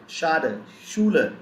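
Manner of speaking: "Schade" and "Schuler" both opening with sh; "Schade" as SHAH-duh, "Schuler" as SHOO-luh; German sch pronunciation. Shown as a demonstration. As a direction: model "Schade", "Schuler" as example words. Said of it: "we pronounce it".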